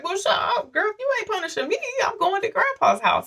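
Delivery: high, mocking little-girl sass; sassy kid comeback. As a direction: toss it off like a cheeky kid. Child self sassing back, quoted.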